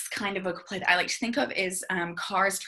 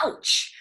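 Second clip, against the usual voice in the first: ouch; 4 dB louder than usual. Shown as a demonstration. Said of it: "maybe say".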